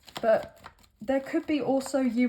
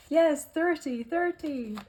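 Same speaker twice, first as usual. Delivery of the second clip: higher mock American Irish accent; weird American Irish accent; 4 semitones higher, slower than usual. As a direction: toss off "thirty" in a playful Irish lilt. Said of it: "weird American Irish accent".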